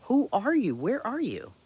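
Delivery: high, loud, desperate shouting. Retold or imitated. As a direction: yell it, demanding answers. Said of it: "I'm like".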